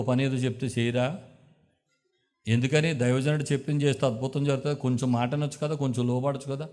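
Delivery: lightly voiced friend talking him round; counseling friend. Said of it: "counselling మొదలెట్టాడు". (సున్నితంగా నచ్చజెప్పే స్నేహితుడు)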